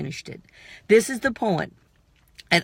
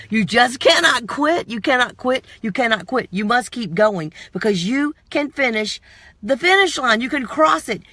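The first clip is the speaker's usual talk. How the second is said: booming motivational speech; 3 semitones higher than usual. Acted. Preaching to the viewer.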